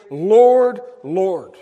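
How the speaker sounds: a loud cry of Lord that drops back on the second; pleading call. Retold or imitated. Preacher imitating churchgoers calling loudly on the Lord. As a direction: mimic eager worshippers crying out. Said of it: "who actually say".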